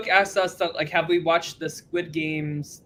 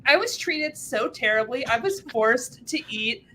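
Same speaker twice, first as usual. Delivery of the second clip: higher-pitched mock complaint; mock aggrieved contestant; 5 semitones higher than usual. Imagined Fear Factor contestant complaining about the show, mock aggrieved. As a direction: play a contestant airing grievances, pitched up. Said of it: "then they were like".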